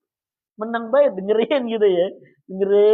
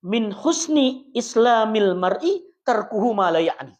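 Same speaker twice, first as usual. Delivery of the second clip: slow, measured Arabic recitation; hadith recitation; 2 semitones higher, slower than usual. Acted. Preacher quoting the Prophet to the congregation, slow recitation. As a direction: recite it slowly and reverently.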